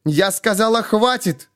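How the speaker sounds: high, sharp barked command; barked order. A narrator's reading. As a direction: bark it to cut him off. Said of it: "рявкнула Овсянникова". (рявкает, чтобы он замолчал)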